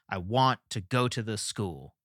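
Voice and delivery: "I want to go to the school", stressing "want", "go", "school"; three emphasized syllables. Shown as a demonstration. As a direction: lean on WANT, GO, SCHOOL, with "to the" unemphasized. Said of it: "Three emphasized syllables".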